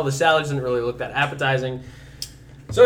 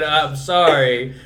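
very slow, louder quoted apology; drawn-out correction; 5 dB louder, much slower than usual. Retold or imitated. Teased friend correcting the retold story, drawn-out apology. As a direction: stretch both words out with emphasis.

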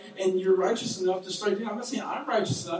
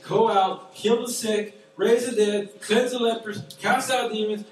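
louder, raised preaching call; proclaiming; 4 semitones higher, 5 dB louder than usual. Acted. Preacher sends the church out, louder proclaiming. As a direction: ring it out like a commission.

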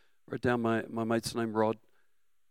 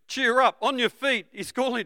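loud, high call; crowd calling; 11 semitones higher, 6 dB louder than usual. Acted. The crowd calling Bartimaeus to his feet, loud. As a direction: call out to the blind man cheerily. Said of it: "So they called to the blind man".

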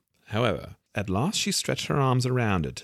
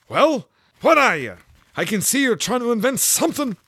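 fussy pigeon; 9 dB louder than usual. A narrator's reading. The pigeon complains to Alice about serpents, high and fussy.

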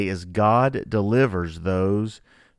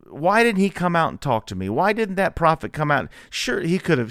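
higher, aggrieved complaining, a touch of outrage; mock indignant Naaman; 6 semitones higher than usual. Pastor voicing Naaman's huff at the prophet, mock indignant. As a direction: voice his wounded pride half in jest. Angry Naaman voiced in sermon.

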